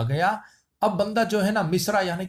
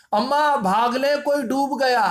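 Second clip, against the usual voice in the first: calling out; 5 semitones higher, 3 dB louder than usual. Acted. Calling mother for help, drowning.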